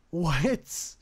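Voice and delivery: loud high rising disbelief; can't believe it; stunned what. Real, not acted. Reacting to nuke.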